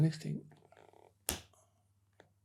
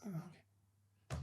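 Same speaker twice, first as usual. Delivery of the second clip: slow, breathy, much softer acknowledgement; slow dazed whisper; 3 semitones higher, 25 dB quieter, much slower than usual. Retold or imitated. Doorman hearing the gunman has an automatic, in a slow whisper. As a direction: let it slip out slowly, deflated. Reaction to being told about a gun.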